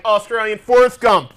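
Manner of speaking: mock Australian. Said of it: "you're like".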